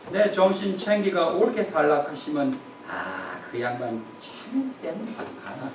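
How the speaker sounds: psalm line in a gruff, teasing Gyeongsang dialect, dropping to a soft mutter at the end; preacher mock-reciting the psalm to the congregation, Gyeongsang dialect. 경상도 사투리로 툭 던지듯. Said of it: "경상도 버전이죠".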